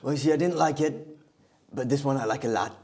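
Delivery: lightly voiced presidential parody; Donald Trump. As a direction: play the pleased politician giving an answer. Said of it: "let's leave President Trump".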